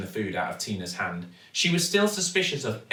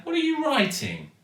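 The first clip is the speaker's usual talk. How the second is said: put-on high, impatient child's question. A narrator's reading. Zoe nagging her dad about the van sign, impatient. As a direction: pester Dad for the answer. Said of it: "asked Zoe impatiently".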